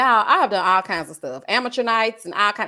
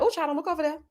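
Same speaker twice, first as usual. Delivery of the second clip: soft, higher hushed mock fear; mock nervous warning; 6 semitones higher, 4 dB quieter, faster than usual. To her friend in strangers' car, soft mock fear. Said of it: "I'm like".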